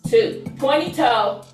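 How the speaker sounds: upbeat fitness instructor counting reps; aerobics instructor. Real, not acted. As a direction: pump up the class while counting.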